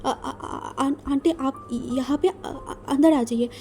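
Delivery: halting, stammering, half-swallowed words; flustered young man stammering at the door; nervous stammer. Retold or imitated. Wing flustered meeting aunt.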